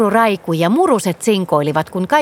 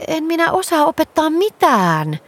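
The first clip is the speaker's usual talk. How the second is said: higher, shy and awkward, mumbled; embarrassed mumble; 8 semitones higher than usual. A narrator's reading. Girl Nelli to Käpymummu, shyly mumbling. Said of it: "Nelli sopersi vaivautuneena".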